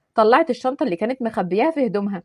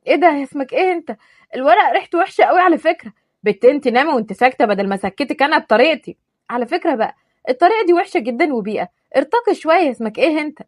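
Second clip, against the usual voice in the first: higher, snooty scolding; haughty complaint; 3 semitones higher, 3 dB louder than usual. Acted. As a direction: turn your nose up at him.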